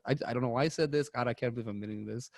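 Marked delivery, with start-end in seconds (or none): none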